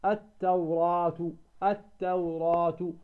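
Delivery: التوراة said slowly with the alif after the ra held two counts; slow teaching demo of التوراة, long aa; measured long vowel. Shown as a demonstration. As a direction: draw out the "raa" in التوراة evenly. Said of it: "نمدها بمقدار حركتين".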